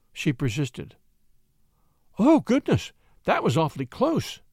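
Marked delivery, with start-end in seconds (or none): 2.2-4.4 startled cry. A narrator's reading. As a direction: cry out in mild alarm. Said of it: "she cried".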